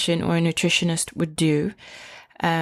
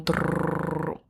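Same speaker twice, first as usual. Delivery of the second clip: drum roll; 5 dB quieter than usual. Pretend. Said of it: "Drum roll".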